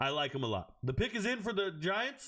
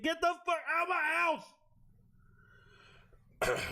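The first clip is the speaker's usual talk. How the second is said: shrill fast yell of mock outrage, much higher; mock outburst; 10 semitones higher, faster than usual. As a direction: scream it out in mock outrage, far higher and faster. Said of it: "What are you making for breakfast?".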